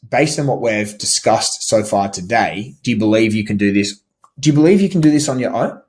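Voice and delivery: rising tune on "Do you believe you can do this on your own?", pitch climbing at the end; demo rising question. Shown as a demonstration. Coach demoing a rising, doubting tune to the prospect. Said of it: "in the part where it says".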